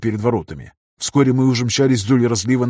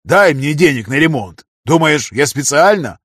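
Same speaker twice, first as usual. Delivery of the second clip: louder, raised defiant retort; angry retort; 4 semitones higher, 6 dB louder than usual. A narrator's reading. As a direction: throw it back at him. Trader arguing back.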